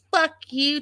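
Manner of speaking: high-pitched imitated curse; mock angry outburst. Vlogger imitates wife cursing the brother, high mock anger. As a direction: throw it out high, imitating her fury.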